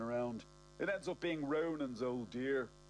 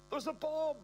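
panicked shriek, far above usual pitch; high-pitched scream; 3 dB louder than usual. A narrator's reading. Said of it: "a high-pitched scream".

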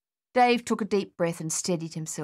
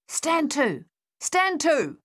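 high, loud called order; captain calling his men to arms; calling along the line; 10 semitones higher, 3 dB louder, slower than usual. Acted. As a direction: call it down the trench. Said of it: "he called along the line".

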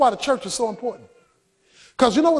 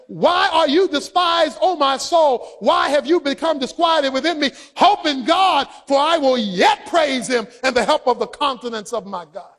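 fervent cry. Acted. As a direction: cry the verse out to the soul. Psalm quoted at full force.

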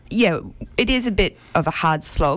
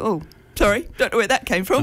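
put-on light, slightly higher English accent; 4 semitones higher than usual. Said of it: "burst into an English accent and go".

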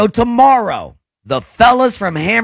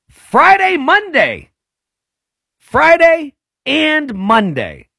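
excited hype; 9 semitones higher, much slower than usual. Real, not acted. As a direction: sell the dates like a radio promo. Hyping live show dates on air.

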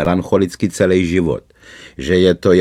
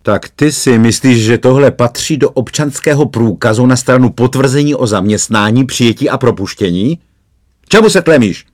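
building from sharp scolding to a loud, high roar; an interrogating policeman erupts into a shout; roaring cop; 5 semitones higher, 4 dB louder than usual. Acted. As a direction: bellow the last question at him. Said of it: "zařval na mě najednou".

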